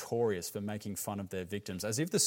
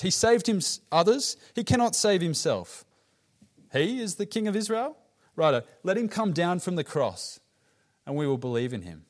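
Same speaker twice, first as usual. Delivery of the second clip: loud, high jeering taunt; mocking religious leaders; 7 semitones higher, 7 dB louder than usual. Preacher voicing leaders jeering at Jesus, loud and high. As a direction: sneer it up at the cross, loud and high.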